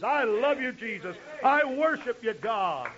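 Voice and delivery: lifted, heartfelt prayer words; praise demo. Shown as a demonstration. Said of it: "a real good offense of praise".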